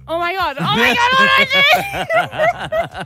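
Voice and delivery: panicked. Retold or imitated. Panicking on seeing him.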